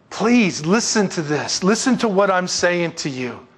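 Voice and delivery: slow, drawn-out plea; begging. Acted. Father begs his older son to listen, pleading. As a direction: implore with every word stretched out. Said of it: "He begged".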